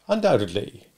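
restrained repeat of the answer; cross-examiner's echo. Acted. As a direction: hand the word back coolly. Stranger echoes Wopsle's answer.

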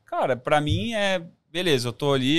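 ordinary talk, nothing marked

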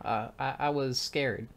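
soft, halting, slightly scared; falter, then admit it quietly; understated nervous stammer; timid admission. Acted. Timid girl admits her fear.

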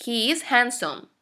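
slow HE IS HANDSOME, falling at the end; model sentence for repeating. Shown as a demonstration. Teacher has students repeat, slow model sentence. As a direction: space out HE IS HANDSOME for learners. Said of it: "repitan después de mí".

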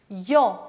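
Ё said as yo, like your; Russian letter sound. Shown as a demonstration. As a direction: model the letter Ё clearly. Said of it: "it's like your".

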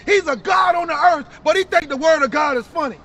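indignant preacher's rebuke; street preaching. Real, not acted. Preacher rebuking a laughing brother, forceful preaching. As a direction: call out the scoffer forcefully.

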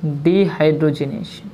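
drawn out, syllable by syllable; teacher slowly dictating a long term; slow dictation. Shown as a demonstration. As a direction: stretch the long word slowly. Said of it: "और चौथा है".

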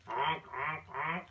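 playful goose honking. Pretend. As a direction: honk like a goose for a toddler. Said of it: "See the goose honking".

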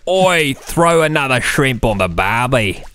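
mock Australian.

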